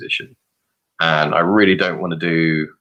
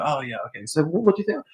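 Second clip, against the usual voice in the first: quoting the marketing guy; 7 semitones higher, 4 dB quieter than usual. Retold or imitated. Retelling interviewer's casual question.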